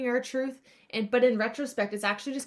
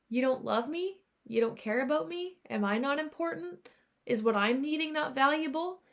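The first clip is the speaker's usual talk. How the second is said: lightly voiced inner child, higher questioning rises; hurt younger self; 4 semitones higher than usual. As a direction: gently plead for reassurance in rising questions. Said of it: "from a younger part of us".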